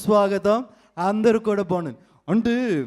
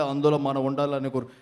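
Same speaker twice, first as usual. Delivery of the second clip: mimicked low voice; 6 semitones lower than usual. Mimic thanks award winners in a low elder's voice. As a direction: lower voice of a dignitary.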